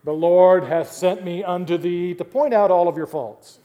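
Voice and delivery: mock self-righteous critic. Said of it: "their spiritual gift is criticism".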